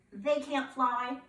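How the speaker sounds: usual speaking voice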